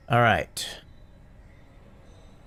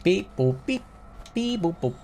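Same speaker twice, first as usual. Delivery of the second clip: alien voice; 4 dB quieter than usual. Pretend. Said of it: "salutations does make you sound like an alien".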